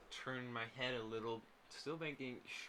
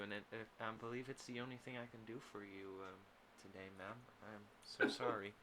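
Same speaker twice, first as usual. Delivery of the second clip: gentle apology. Acted. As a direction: offer the coin tenderly, apologetic. Character apologizes to crying woman.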